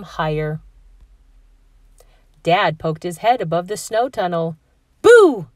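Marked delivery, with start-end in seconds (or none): 5.0-5.5 high, loud playful scare; playful yell. A narrator's reading. Dad surprising the kids from the snow tunnel, playful yell. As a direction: pop up and scare them. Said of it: "he yelled".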